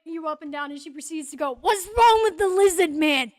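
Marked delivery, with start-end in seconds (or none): 1.6-3.3 loud, higher-pitched blurted question; raised in-character voice, openly baffled; brash shopkeeper. Acted. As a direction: call it out as a nosy shopkeeper.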